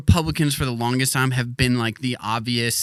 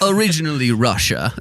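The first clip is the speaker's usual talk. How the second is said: put-on Russian accent. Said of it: "it was Ivan Drago".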